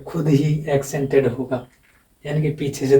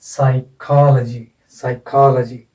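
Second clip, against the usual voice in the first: "साइकोलॉजी" as sai-KOL-uh-jee, long strong "को"; stress on KO; slower than usual. Shown as a demonstration. Teacher repeats the word for students, stress on KO. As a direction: hit "को" in "साइकोलॉजी". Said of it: "एक syllable बना है कॉ".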